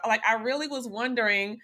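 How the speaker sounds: normal talking voice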